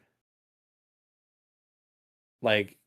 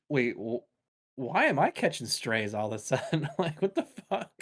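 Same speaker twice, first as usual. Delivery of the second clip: laughing quote; 2 semitones higher than usual. Retold or imitated. Passenger voiced, laughing.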